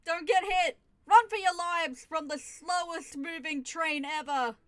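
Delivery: hammed-up loud warning cries; mock alarmed shouting. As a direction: yell like disaster looms, jokingly. Mock warning about slow train.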